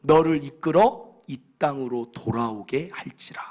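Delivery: slow whisper, like God speaking close to the ear; whispered divine promise. Acted. God promising Jacob his return, slow whisper. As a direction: breathe the promise out in a hush.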